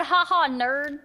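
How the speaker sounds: mocking taunt. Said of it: "you said".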